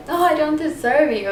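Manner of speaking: teasing, insincere self-deprecation; super sarcastic. Retold or imitated. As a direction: play around with it, sarcastically. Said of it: "it's being super sarcastic".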